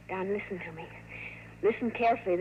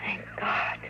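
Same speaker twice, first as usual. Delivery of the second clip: softer, breathed thanks; relieved whisper; 3 semitones lower, 5 dB quieter than usual. Acted. Kathy to Don as the danger passes, whispered relief. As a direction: let the relief out under your breath.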